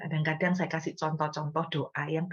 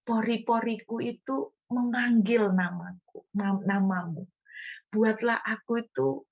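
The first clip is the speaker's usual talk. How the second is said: imitated fervent prayer; 5 semitones higher than usual. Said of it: "Saya niru doanya hamba-hamba Tuhan".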